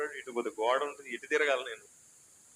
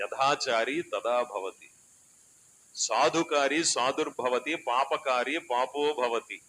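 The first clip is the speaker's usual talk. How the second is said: verse recitation; slower than usual. Acted.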